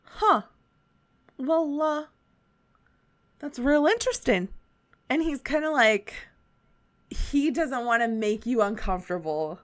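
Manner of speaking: put-on a light Southern shopkeeper accent. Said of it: "It just continues to go Southern".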